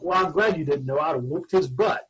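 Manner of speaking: lightly imitated Southern mom's twang. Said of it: "in the wonderful Southern twang".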